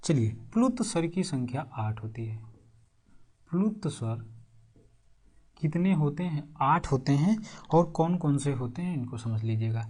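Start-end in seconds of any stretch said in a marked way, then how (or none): 0.5-4.2 hushed, voiceless dictation to the class; whispered dictation. Real, not acted. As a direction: whisper it as you dictate a note. Dictating notes to students.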